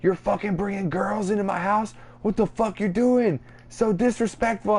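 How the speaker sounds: high-pitched mock outrage; scolding mom impression. Friend imitates mom berating Twig over house guests, mock outrage. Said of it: "she tripped me the fuck out".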